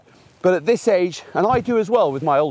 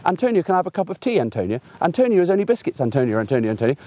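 lightly mimicked pestering, name repeated nonstop; nagging husband; faster than usual. Husband in the kitchen pestering his wife for tea, mock nagging. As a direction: rattle off her name fast like a nagging pest. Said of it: "What I don't do is I don't walk into the kitchen and go".

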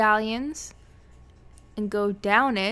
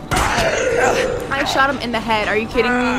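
frustrated shout; 6 dB louder than usual. Real, not acted. Frustrated at an unkillable zombie.

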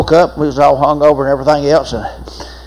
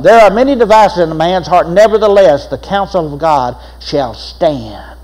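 solemn scripture reading. Acted. Scripture reading, slowing at end.

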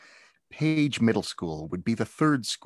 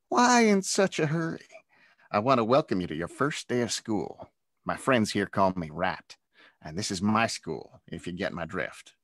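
mocking bully. Bully Rat welcoming Zach with mock friendliness. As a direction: smile while you threaten him. Bully voiced menacing new kid.

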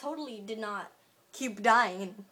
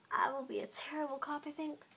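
unvoiced, soft confession; whisper; 3 semitones higher, 6 dB quieter than usual. Real, not acted. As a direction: whisper it to yourself. Quiet aside about herself.

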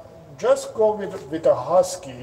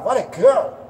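pitched up and louder, rising praise; high excited praise; 8 semitones higher, 4 dB louder than usual. Shown as a demonstration. Trainer showing owner how to praise, high and thrilled. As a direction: gush over her with delight. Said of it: "You focus on praising your beagle".

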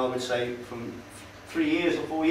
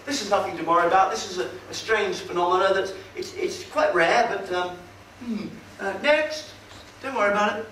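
mock reassuring weather girl; 4 semitones higher than usual. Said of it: "she's, she's going".

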